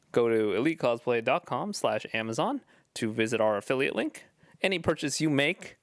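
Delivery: sponsor read, announcer style. Acted. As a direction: read it like a radio ad spot. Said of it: "my announcer voice here".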